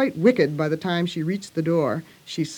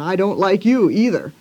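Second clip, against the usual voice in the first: cross; 5 dB louder than usual. Retold or imitated. Lucy venting on Charlie Brown.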